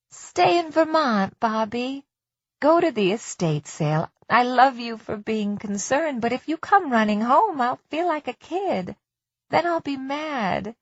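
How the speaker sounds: wife on the phone urging her husband to stay away, lightly voiced; Darcy's voice.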